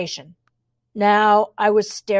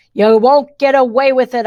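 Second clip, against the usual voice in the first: louder, defiant challenge to the villains; 2 semitones higher, 6 dB louder than usual. Acted. Girl goading the twins into ranting, louder and defiant. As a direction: bait them with a bold threat. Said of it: "a good trigger".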